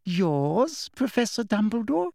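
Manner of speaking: mock the old man with a sugary sneer; unpleasant mockery. A narrator's reading. Umbridge sneers at Dumbledore, mocking. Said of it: "with a singularly unpleasant little laugh".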